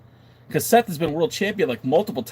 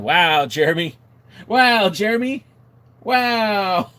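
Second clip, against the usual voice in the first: drawn-out, high, loud wow; play-appalled, rising higher and louder; mock shock; 7 semitones higher, 5 dB louder, slower than usual. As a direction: react as if scandalized by a friend. Mock shocked reaction to a viewer's comment.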